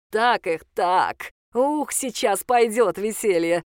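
slow, loud gleeful hacker; gleeful over communicator. Acted. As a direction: gloat over the radio. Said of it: "донёсся из коммуникатора ликующий голос".

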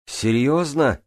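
high, loud incredulous question; shout. A narrator's reading. Swimmer reacts to Джанель's confession, shouting. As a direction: shout back in disbelief. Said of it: "крикнул я".

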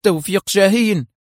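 high, panicked outburst of the name; frightened man blurting the name, high and loud; terrified cry. A narrator's reading. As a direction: blurt the name out in sudden terror. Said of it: "هتف رشاد في ارتياع".

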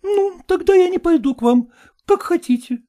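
put-on high, imploring young woman; high-voiced daughter pleading. A narrator's reading. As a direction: beg your father not to make you go.

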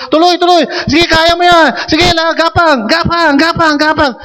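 pushing a blindfolded player to keep crawling, shouted; coach shouting encouragement. Retold or imitated. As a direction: urge him on like a coach on the field. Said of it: "sabi lang sa kanya ng coach".

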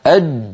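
أج stopped tight; pressed final jeem. Shown as a demonstration. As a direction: close off the jeem in أج. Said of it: "جربوا". (جيم ساكنة محبوسة)

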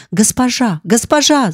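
sudden alarmed call, rising on the second; a maid cries out in terror at the fire; crying out. Acted. Phoebe sees the fire and cries out to her mistress. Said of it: "закричала Феба".

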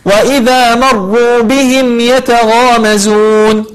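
بهم with the م pronounced clearly before ي. Shown as a demonstration. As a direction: sound the م of بهم fully, no hiding. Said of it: "فنقول". (إظهار الميم في بهم)

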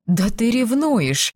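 slow, high-pitched astonishment; astonished. A narrator's reading. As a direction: exclaim slowly in surprise. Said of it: "поразилась она неожиданному выпаду". (поражённо)

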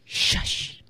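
unvoiced, soft "Shush"; hushing shush. Shown as a demonstration. Teacher names the word for silencing someone, whispered. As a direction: whisper SHUSH like a long hush. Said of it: "叫做".

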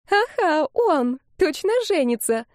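a gossiping commenter sharing rumours; gossipy commenter. Acted. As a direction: spill the juicy news. Gossiping commenter read aloud.

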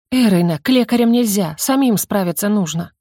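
ordinary delivery

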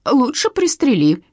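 hammed-up despair; moaning. A narrator's reading. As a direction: groan it like a tragic plea. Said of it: "простонала Катерина".

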